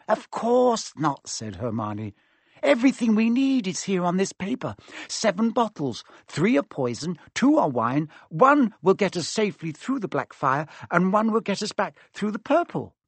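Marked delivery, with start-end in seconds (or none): 0.1-1.3 slightly hammed confident reassurance, high and slow; lightly voiced girl, sure of herself; Hermione. Story figure Hermione. 2.6-12.9 put-on high, eager clever-girl voice; excited know-it-all working it out; Hermione. Story figure Hermione.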